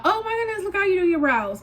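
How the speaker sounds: mock commenter. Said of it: "don't be yelling at me in the comments".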